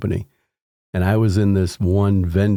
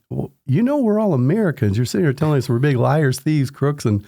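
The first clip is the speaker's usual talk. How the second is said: indignant retort; 5 semitones higher than usual. Retold or imitated.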